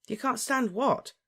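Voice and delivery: high, slow, baffled question; alarmed. A narrator's reading. Harry questions his agitated friend, alarmed. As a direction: ask it in rising alarm. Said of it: "starting to feel definitely alarmed".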